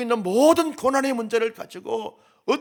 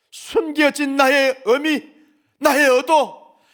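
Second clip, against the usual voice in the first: slow, louder, every word weighted; slow emphasis; 2 semitones higher, 9 dB louder, much slower than usual. Pretend. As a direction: lean hard on each phrase. God stresses his intent. (천천히 힘주어)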